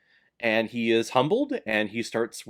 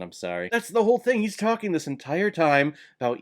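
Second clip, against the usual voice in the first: normal talking voice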